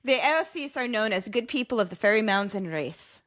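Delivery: rereading in a put-on Irish accent. Host rereads fairy lore for co-host, Irish accent. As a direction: read it with an Irish lilt. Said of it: "your accent is so impressive".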